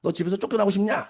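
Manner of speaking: lightly acted parental threat; understated angry telling-off; mock scolding. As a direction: threaten a child with mild temper. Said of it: "막 화를 내서 끌어들여야 된다".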